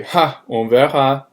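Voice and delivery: confident retort to a cocky opponent; emphatic, dismissive. Shown as a demonstration. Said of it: "a stronger, more emphatic expression".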